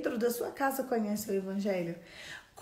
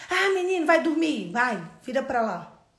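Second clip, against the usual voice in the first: impatient dismissal; 3 semitones higher, 6 dB louder than usual. Acted. Impatient parent ordering a boy to sleep, cross. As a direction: brush the child off crossly.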